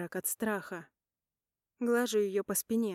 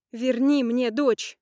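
slow, louder desperate scream; 4 semitones higher, 10 dB louder, slower than usual. Acted. Mother shaking Polina over her lost daughter, slow desperate scream. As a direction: scream each word at her. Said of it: "mother demanding lost daughter".

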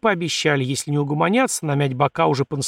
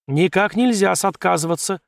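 mildly stern, higher insistence; 4 semitones higher than usual. Acted. Organiser forbidding the winner to refuse, stern. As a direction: insist with a touch of severity. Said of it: "строго покачал головой организатор".

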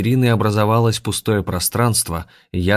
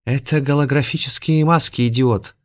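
higher, louder scornful snap; hiss; 7 semitones higher, 3 dB louder than usual. Acted. Shalpan corrects the dim henchman, scornful hiss. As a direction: snap at the fool. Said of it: "прошипел Шалпан".

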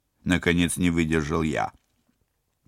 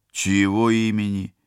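laughing; 5 semitones higher, 6 dB louder than usual. Acted. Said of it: "скорчившись от хохота".

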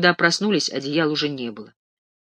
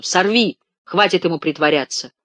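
voice ringing to a shout; 3 semitones higher, 4 dB louder than usual. Acted. Sergei demanding the sheet be torn off, shouting. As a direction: ring out almost screaming. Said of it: "Голос его зазвенел до крика".

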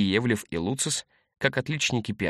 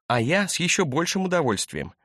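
laughing; 7 semitones higher than usual. A narrator's reading. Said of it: "засмеялась Вероника".

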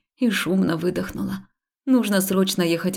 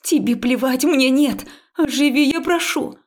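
higher, louder desperate demand; pleading shout; 6 semitones higher, 3 dB louder than usual. Acted. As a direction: shout it, then beg. Heroine yells pleading at Haul. (отчаянный крик с мольбой)

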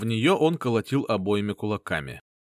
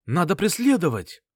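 higher, louder eager exclamation; exclaiming; 7 semitones higher, 4 dB louder than usual. A narrator's reading. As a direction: call out urgently to chase. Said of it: "воскликнул Варк".

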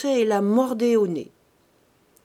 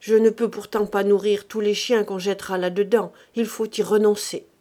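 sour tone; 4 dB louder than usual. Acted. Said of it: "d'un ton aigre".

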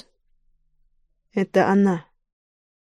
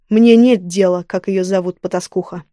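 cold, cutting louder dismissal; contemptuous; 4 dB louder than usual. Acted. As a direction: cut her off with scorn. King cuts the woman off.

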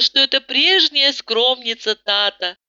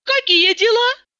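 sober and businesslike; 3 dB louder than usual. A narrator's reading. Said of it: "с похвальной трезвостью".

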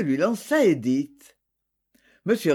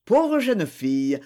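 sighing pity. Acted. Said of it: "soupira le procureur".

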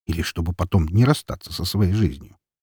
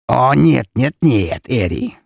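menacing, forceful refusal; mounting threat that drops at the end; threatening; 5 semitones higher, 4 dB louder, slower than usual. A narrator's reading. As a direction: say no as a warning. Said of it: "угрожающе сказал граф".

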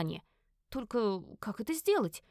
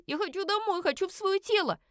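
much higher pleading wail; high, tearful whine; 10 semitones higher than usual. Acted. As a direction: cry out to go home. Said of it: "Надрывалась я во весь голос".

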